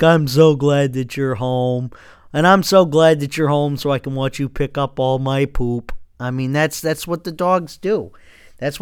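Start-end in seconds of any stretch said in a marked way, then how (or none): 0.0-5.9 goofy dog voice. Retold or imitated. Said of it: "with the biggest, dumbest grin".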